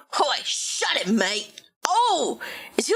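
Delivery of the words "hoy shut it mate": light Aussie bloke telling someone to shut it; a mild Australian accent, casual put-down; a hint of an Australian accent. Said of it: "I gave him an Australian accent".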